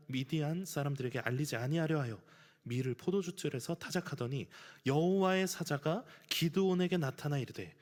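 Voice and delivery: ordinary delivery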